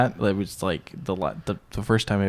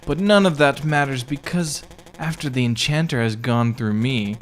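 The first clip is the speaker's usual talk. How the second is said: lightly raised mock girly voice; 3 semitones higher than usual. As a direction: lift into a playful girly voice. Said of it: "I should be doing this in a girly voice".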